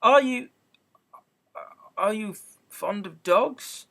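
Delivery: flustered, eager question; hurried. A narrator's reading. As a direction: rush to change the subject. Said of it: "in a great hurry to change the subject".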